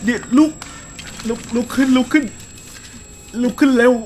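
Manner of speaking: begging the character to get up; real fright, shouting "get up"; frantic urging. Real, not acted. Character falls, urging to rise.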